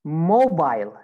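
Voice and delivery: British "mobile", MO-bile; British pronunciation. Shown as a demonstration. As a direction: rhyme the end of "mobile" with "mile". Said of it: "In British accent".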